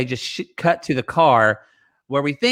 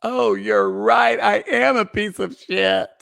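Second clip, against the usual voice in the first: mock sarcastic surrender; 5 semitones higher, slower than usual. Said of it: "She's like".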